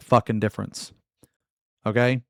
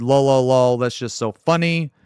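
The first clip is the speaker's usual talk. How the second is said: mock laughing read; 5 dB louder than usual. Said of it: "And then I said".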